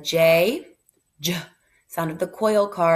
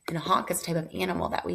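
whispering; 6 dB quieter, much faster than usual. Real, not acted. Quick whispered aside to class.

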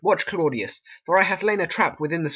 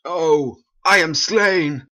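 slow, strained dying gasp; stabbed man's last breath; dying words; 3 dB louder, much slower than usual. Acted. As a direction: die on the words, slowly.

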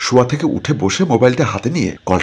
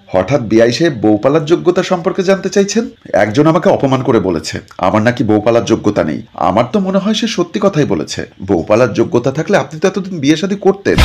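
smirking mockery; 3 semitones higher than usual. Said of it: "Shanta মুচকি হেসে মুখ বাঁকিয়ে বলল".

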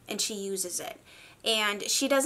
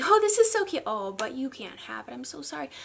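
mocking taunt; 3 semitones higher than usual. Sephora products taunting her, mock sympathetic. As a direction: tease like a shop taunting a buyer. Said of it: "almost mockingly yells at me".

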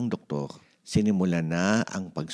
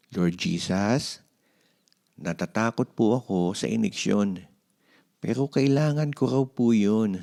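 put-on child's prayer. Mark prays to Jesus before his shot, childlike. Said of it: "Nanalangin siya".

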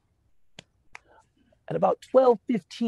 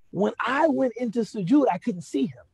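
ordinary talk, nothing marked

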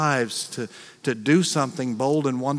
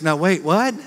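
mild startled double take, louder; 3 semitones higher, 5 dB louder than usual. Retold or imitated. Mary answering the angel, lightly startled. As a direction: catch yourself in disbelief. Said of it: "And Mary goes".

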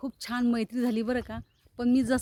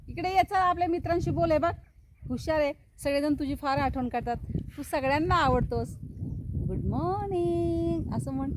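higher, doting coaxing voice, "इकडे ये" lifted up high; coaxing a pet bird; 4 semitones higher than usual. Real, not acted. She coaxes her pet bird to say good morning, high and doting. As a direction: coax the bird sweetly to come and speak.

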